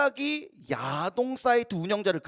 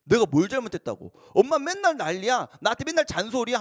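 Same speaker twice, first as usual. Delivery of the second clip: put-on sulky teen grumble. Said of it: "하면서 막 억울했던 거예요".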